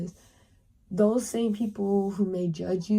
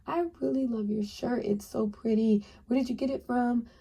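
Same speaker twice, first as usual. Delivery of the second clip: lightly voiced cheerful compliment, higher; mock friendly stranger; 4 semitones higher than usual. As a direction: play the eager new acquaintance.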